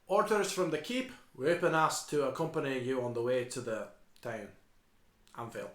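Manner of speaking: a hint of Scottish, held back; stifled Scottish accent. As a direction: suppress the Scottish burr. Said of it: "trying so hard to do the stifled Scottish accent".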